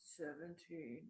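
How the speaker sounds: put-on masculine old man voice, low and slow.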